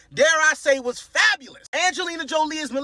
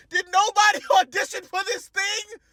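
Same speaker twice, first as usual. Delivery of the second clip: higher, laughing through an exasperated question; laughing disbelief; 8 semitones higher than usual. Real, not acted. Ranting about no auditions.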